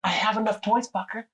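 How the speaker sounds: hammed-up irritated father complaining about his son; mock angry rant. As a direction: rant like a fed-up dad buried in toys. Friend annoyed about Porsche gift.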